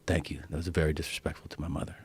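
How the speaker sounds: hushed, serious thanks and complaint; quiet earnest reproach. Retold or imitated. Her son thanking the comic afterwards, imitated quiet reproach.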